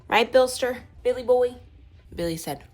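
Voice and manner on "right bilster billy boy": higher, louder cheerful call to the dog; upbeat call. Real, not acted. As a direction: hype up the dog by name. Calling to the dog Billy.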